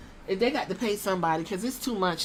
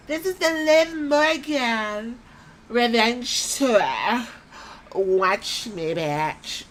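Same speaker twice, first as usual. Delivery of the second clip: mock wrestler promo; much slower than usual. Mocking Liv Morgan's promo.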